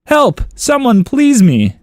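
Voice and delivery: high-pitched call for help; mock yelling. Owner calling four oddly named dogs, mock yell. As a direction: call out the names in mock distress. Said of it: "If I heard him yell out those names".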